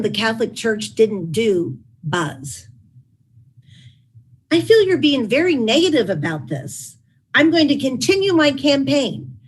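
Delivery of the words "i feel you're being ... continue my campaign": a touch of mock defiance, pitched higher; lightly voiced stubborn insistence; somewhat defiant. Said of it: "he said somewhat defiantly".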